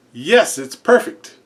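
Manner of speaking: slow, odd voice for a talking bird; the ostrich copying the guy, slow and deadpan. Acted.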